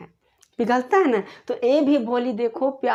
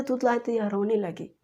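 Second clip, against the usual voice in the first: ordinary delivery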